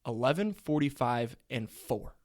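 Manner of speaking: drawn-out dramatic restatement; slow for effect. Shown as a demonstration. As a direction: say it again slowly so it resonates. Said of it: "Let me let that resonate real quick".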